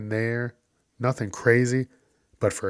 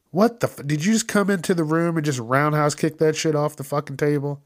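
angry rant; 5 semitones higher than usual. Retold or imitated. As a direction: vent at the clumsy worker. Ranting at the clumsy worker.

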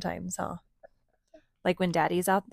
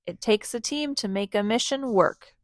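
proud bark; 3 semitones higher than usual. Acted. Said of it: "Bronco barked proudly".

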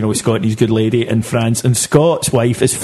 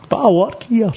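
Big Hugh impression; 8 semitones higher than usual. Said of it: "Big Hugh coming in and going".

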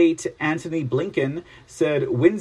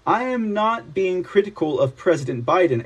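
put-on Zelensky accent. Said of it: "it sounds very terse with their accent".

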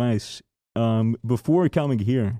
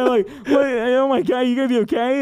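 higher, louder, alarmed retelling; frightened kid; 11 semitones higher, 3 dB louder than usual. Retold or imitated. Narrator as a kid watching his sibling, much higher and alarmed. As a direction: tell it as a startled child.

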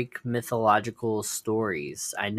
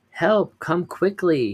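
high, loud cry for help; shouting for help; 7 semitones higher, 6 dB louder, slower than usual. Acted. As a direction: yell it out, panicked and loud. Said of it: "he shouted".

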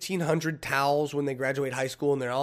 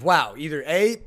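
ordinary talk

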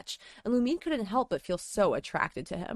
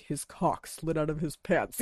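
stuffy nose; 3 semitones lower than usual. Retold or imitated. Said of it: "my congested voice being like".

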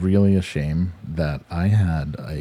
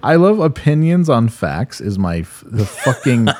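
exasperated rant; 5 semitones higher, 3 dB louder than usual. Real, not acted. Ranting about opinions.

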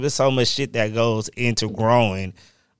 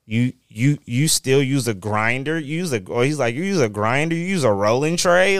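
amazed disbelief; 4 semitones higher than usual. Retold or imitated. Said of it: "they're looking like".

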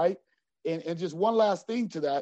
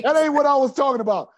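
laughing protest; 8 semitones higher, 9 dB louder, faster than usual. Retold or imitated. Laughing retelling of his protest.

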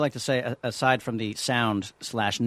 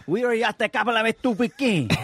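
higher mock Venezuelan Spanish accent, hammed up; imitating David's accent; 9 semitones higher than usual. Actor mimics his accent coach's Venezuelan Spanish accent, hammed up. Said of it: "I didn't sound like that".

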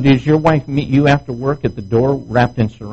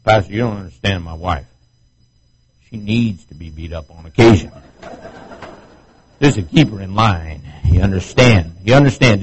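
lower, gruff-sounding mock husband talking down to the pastor; a hint of a swaggering husband; mock macho husband; 5 semitones lower than usual. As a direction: play a smug wife-beater explaining himself. Voicing abusive husband to pastor.

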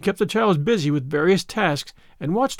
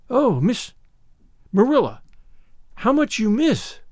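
marvelling; 5 semitones higher than usual. A narrator's reading. Anne marvelling.

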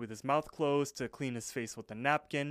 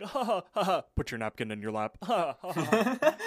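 hammed-up fake laughter, high and loud; mock polite chuckle pushed way up; forced laugh; 6 semitones higher, 6 dB louder than usual. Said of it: "they all share a laugh over that".

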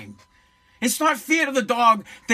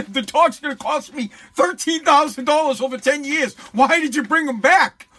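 higher-pitched, hammed-up complaint; mock exasperation; 4 semitones higher than usual. Host plays an owner who didn't want the dog back, mock exasperation. Acts out owner's opposite reaction.

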